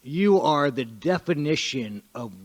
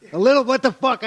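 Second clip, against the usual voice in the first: higher and louder, incredulous outburst; indignant surprise; 9 semitones higher, 7 dB louder than usual. Real, not acted. Fighter protesting to the press officer, incredulous outburst. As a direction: jump up in disbelief at the accusation. Told he crossed a line.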